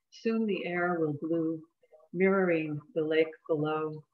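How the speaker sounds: deliberate poem recitation, pausing between lines; poetry reading. Acted. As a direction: give each line of verse its own space. Reads second poem aloud.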